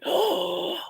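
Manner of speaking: high yelp of mock surprise on oh; mock shock. Imitating herself putting socks on, mock surprise. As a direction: squeal like the socks scraped. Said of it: "I'm reminded".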